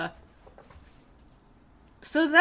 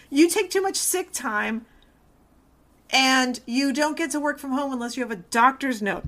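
mock-indignant rant. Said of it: "And I was like".

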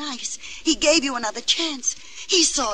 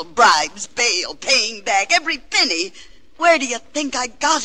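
indignant mother; 5 dB louder than usual. Acted. Mother defends what she spent.

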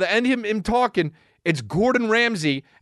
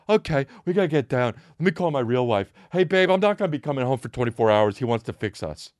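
lower, defeated mumble fading away; meek resigned husband; 6 semitones lower than usual. Pretend. Husband caving to Ramsay, low and resigned. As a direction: give in sheepishly. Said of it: "And you're just like".

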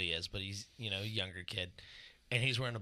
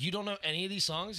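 incredulous; 8 semitones higher than usual. Retold or imitated. Retold disbelief at kid.

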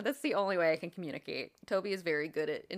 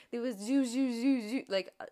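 UFO sound effect; 5 semitones higher than usual. Retold or imitated. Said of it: "did you like my sound effect".

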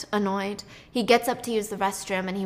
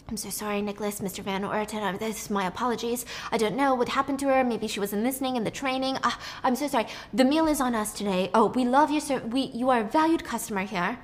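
bow and scrape to the VIP; head waiter soothing a valued customer; grovelling head waiter. Acted. Head waiter grovels to rich client.

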